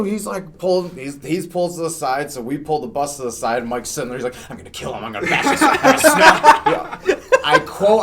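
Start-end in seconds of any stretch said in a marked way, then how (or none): 4.5-7.0 retold threat rising into a laughing shout; building rage. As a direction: wind up into a snapping rage. Mike raging after the crash.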